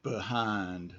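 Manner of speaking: behind with a clear long I, behind said slowly; pronunciation demo; careful model word. Shown as a demonstration. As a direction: say behind as bee-hind, long I. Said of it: "just repeat after me".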